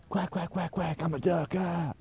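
very high, squeaky cartoon duck quacking; silly duck voice. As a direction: chirp it out like a hyper little cartoon duck. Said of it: "Yeah, a bit like that".

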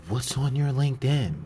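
loud, high mock demand; confronting manager. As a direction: imitate a boss calling you out. Manager confronts him by phone.

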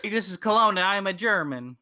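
a hint of a Frenchman bragging; mock French accent. Retelling a Flapjack joke, light French accent. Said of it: "a Frenchman had perfume".

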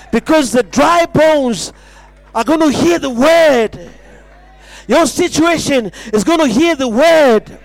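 rising revival sermon, each repeat pounding the word; preaching at full force. Acted. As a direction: hammer the line home to the congregation. Preaching climax, repeated refrain.

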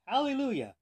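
high, loud storybook shout; shouted command. A narrator's reading. Monk's command for making the mule move, shouted. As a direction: call it out to get a mule moving. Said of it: "he had to shout".

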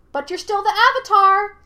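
put-on high, childlike monkey shout; triumphant shout. A narrator's reading. Monkey spirit corners Aang, shouting triumphantly. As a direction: crow it out loudly. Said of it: "shouted the monkey triumphantly".

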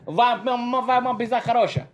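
lightly hammed Russian accent; fake Russian. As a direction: stammer out mock Russian, a bit high. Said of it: "means your mom has good pussy in Russian".

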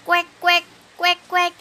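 quick playful quacking; duck quack. Pretend. Child imitates a duck for mother, quacking playfully. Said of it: "coba tirukan suara bebek".

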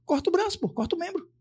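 high squeaky voice quoting the doctor; mock doctor. Doctor telling family to cut off arm, in a mock high voice. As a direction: pitch way up, doctor's blunt order.

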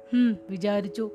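mild sarcastic scolding. Retold or imitated. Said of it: "ഞാൻ കയർത്തു".

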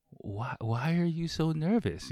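mock puzzled clerk asking why; imitating her. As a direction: play the curious clerk, lightly. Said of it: "she was like".

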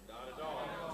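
breathy whisper of "Not at all". Shown as a demonstration. Answering own question, first take hushed.

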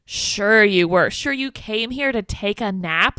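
drawn-out, loud "sure you were"; pointedly mock-doubtful; sarcastic disbelief. Answering Peter's excuse about an angry nap, sarcastic.

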